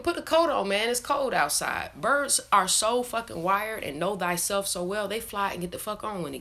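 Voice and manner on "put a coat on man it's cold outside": high, lightly voiced nagging parent; bossy reminder. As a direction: nag him to put his coat on, a touch of a mother. Telling someone to wear a coat.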